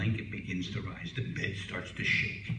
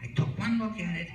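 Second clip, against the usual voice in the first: husband's punchline; 5 semitones higher than usual. Acted. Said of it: "Sam says".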